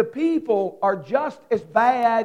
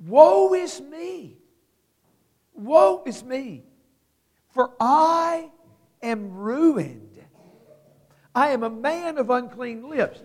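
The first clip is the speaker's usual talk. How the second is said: anguished cry; 3 semitones higher than usual. Acted. Preacher crying out as Isaiah before holy God. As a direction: cry it out as a man undone. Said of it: "Isaiah says".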